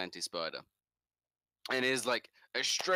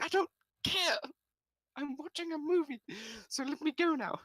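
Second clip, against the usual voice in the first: mock outburst, pitched way up; exasperated. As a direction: brush her off, fed up. Exasperated with caller in cinema.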